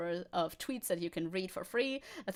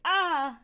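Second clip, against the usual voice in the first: loud, high "ah" cry; imitated movie cry; 7 semitones higher, 8 dB louder than usual. Streamer imitating TikTok audio from Akira, loud cry. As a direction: mimic a film clip's yell. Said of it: "another TikTok audio where it's like".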